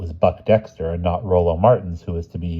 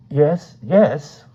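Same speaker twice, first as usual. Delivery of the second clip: obscurely mumbled; 8 semitones higher, 5 dB louder than usual. A narrator's reading. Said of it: "said obscurely".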